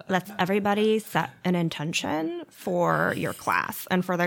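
yoga teacher vocal fry. Acted. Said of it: "immense amounts of vocal fry".

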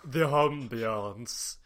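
"ambiance" drawn out very slowly as AHM-bee-ahns; affected "ambiance". Shown as a demonstration. Teasing friends who mocked the word, pretentious slow AHM-bee-ahns. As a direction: stretch "ambiance" with a pretentious French-style ah. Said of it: "you sound like a nationalist traitor".

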